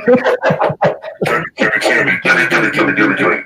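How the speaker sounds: demonic laugh. Pretend. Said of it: "That's a demonic voice".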